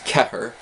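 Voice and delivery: "cethair" begun on a hard k; Irish with K sound. Shown as a demonstration. Comparing words for four, showing the k in Irish "cethair". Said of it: "with that k sound".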